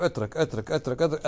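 brushing it aside; dismissive. Retold or imitated. Imitating people who skip the sunna, softly dismissive.

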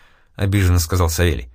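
usual speaking voice

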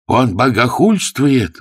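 loud, high, slow outcry; outraged exclamation. A narrator's reading. Both clergymen crying out together at the blasphemy. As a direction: cry out in horror. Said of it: "воскликнули разом".

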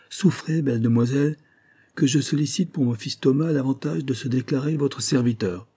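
un militaire qui essaie de parler doux, un peu plus haut; voix de stentor adoucie. Acted. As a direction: galanterie forcée d'un soldat. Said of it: "tâcha d'adoucir sa voix de stentor". (le major s'adresse à Claudine, voix de stentor radoucie)

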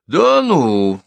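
high, loud yelp of disbelief; crying out. A narrator's reading. Sharp-tongued gossip reacts to the widow, crying out. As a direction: burst out, mock-amazed. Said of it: "вскрикивает Милка Шутова".

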